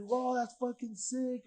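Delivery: high, slow, awed exclamation; amazed stranger. Retold or imitated. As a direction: draw it out in wonder. Stranger admires the tattoo.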